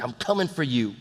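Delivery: soft, low mock threat; lightly acted menace, voice dropped; quiet anger. Acting Jesus angry with death, a quiet threat. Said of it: "he's angry with it".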